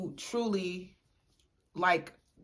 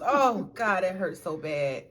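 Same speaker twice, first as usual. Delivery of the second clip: mock pained groan; 2 semitones lower, slower than usual. Real, not acted. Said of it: "don't remind me".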